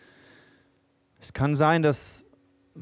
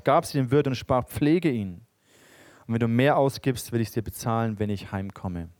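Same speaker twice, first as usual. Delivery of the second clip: measured, solemn Bible reading; scripture reading. Acted. Preacher reads the parable to the church, solemn reading voice. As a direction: read the parable out to the congregation.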